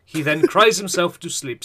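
very slow dramatic trailer read; epic voice. Acted. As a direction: drag it out like a movie trailer. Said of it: "Read it out in an epic voice".

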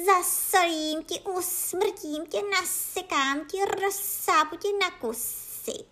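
high, slow cat fury; high-pitched hissing cat menace; spitting, hissing threats. A narrator's reading. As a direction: spit each threat with drawn-out hisses. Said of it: "prskala přitom a syčela".

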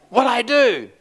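high-pitched imitation of an upset man; mock-tearful admission. Crying man asked if he needs prayer, mock-tearful. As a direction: blurt it high, imitating someone overwrought.

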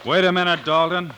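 loud call after a man walking off. Acted. Marshal calling out to the rancher, loud. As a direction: raise the voice to stop him.

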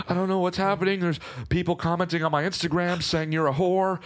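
high-pitched, mock-distraught mom; imitated crying. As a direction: imitate an upset mother, pitched well up. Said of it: "she's, like, crying".

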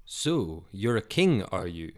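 lightly mocking, sneering question; a touch of scorn, teasing a false king; mocking soldiers. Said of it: "the Roman soldiers mocked".

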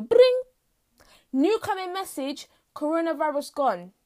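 high ding then a robotic alert read; phone notification. Pretend. A phone pop-up announcing coronavirus gone, in a mock alert voice.

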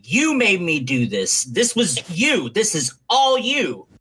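slow, drawn-out accusing yell, pitch climbing; hammed-up blame, dragged out word by word; mock screaming at Rey. Wrestler blaming Rey for the eye injury, slow mock yell. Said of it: "screaming at Rey".

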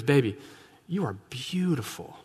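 soft, tender husbandly sweet-talk; lightly acted, hushed flattery to a wife. Abraham buttering up his wife before a request, sweet-talking. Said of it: "starts off the statement really nicely".

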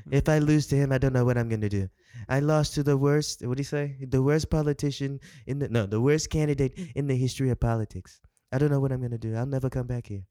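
put-on lightly done South African accent as Trump; a hint of a South African accent. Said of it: "You're making him sound like South African".

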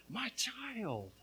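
preacher voicing the Father's claim; fatherly declaration. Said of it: "the Father sees you and declares".

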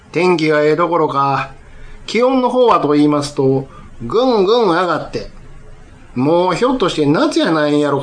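measured, lilting Kansai rakugo narration to a hall; unhurried opening patter, drawing the audience in; rakugo storytelling. Acted. Storyteller opens his rakugo to the audience, leisurely narration.

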